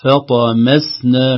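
فطمسنا very slow with a thin م after the heavy ط; slow فطمسنا, م light. Shown as a demonstration. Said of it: "الميم الواقعة بعد الطاء". (ترقيق الميم في فطمسنا ببطء)

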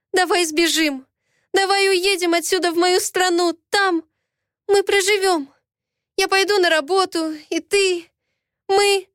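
begging him to flee with her; desperate pleading. Acted. Heroine begs him to run away. (отчаянная мольба, выше)

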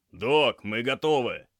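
urgent call to the doctor; loud report. A narrator's reading. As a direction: shout it across to the medic in charge. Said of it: "громко сообщил Алексей".

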